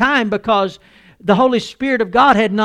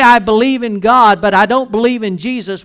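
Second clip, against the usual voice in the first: louder, challenging quote of a doubter; mock unbeliever; 2 semitones higher, 6 dB louder than usual. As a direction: throw the doubter's claim out boldly. Preacher voices an unbeliever's claim.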